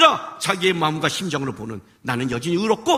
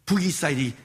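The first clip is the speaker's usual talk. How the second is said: Jonah protesting; 5 semitones lower than usual. Retold or imitated. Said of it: "요나가 갖고 있는 것".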